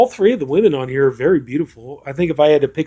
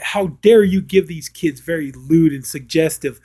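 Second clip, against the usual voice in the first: mock indignation; 3 semitones higher, 4 dB louder than usual. Retold indignant parent scolding entertainer.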